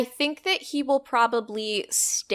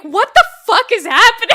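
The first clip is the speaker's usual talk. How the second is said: high, loud, laughing cry of alarm; mock panic; 12 semitones higher, 9 dB louder than usual. Kyoto onlookers seeing a runaway train, mock panic. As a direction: yell it like bewildered bystanders, hammed-up. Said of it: "is scared".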